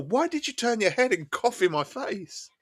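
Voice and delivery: high, slow, disbelieving demand; exasperated retort. Retold or imitated. Ranting at the stranger who coughed in his face, high and exasperated. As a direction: throw the rude man's cough back at him.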